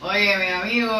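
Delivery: put-on Puerto Rican accent. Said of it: "Do a Puerto Rican accent".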